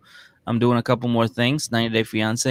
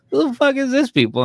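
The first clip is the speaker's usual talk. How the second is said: mock outrage; 14 semitones higher, 4 dB louder than usual. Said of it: "I'm like".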